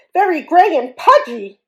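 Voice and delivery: high, loud wail of hurt. Acted. Hippo wailing at the bully's insult. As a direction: wail it like a wounded child. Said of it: "wailed Fragility".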